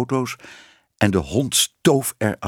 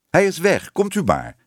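calling up; 6 semitones higher than usual. A narrator's reading. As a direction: call up to someone that it is clear. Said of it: "riep Tibbe". (omhoog roepen)

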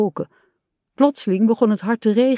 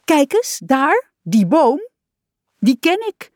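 high, thrilled cries of recognition; joyful high-pitched exclamations; excited calling out; 8 semitones higher, 4 dB louder than usual. A narrator's reading. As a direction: call out excitedly, pitch soaring. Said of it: "Eindelijk riep Kikker".

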